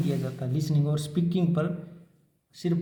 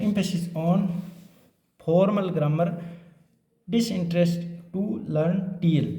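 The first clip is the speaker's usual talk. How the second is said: slow dictation; 2 semitones higher, much slower than usual. Shown as a demonstration. Teacher dictating exam point headings.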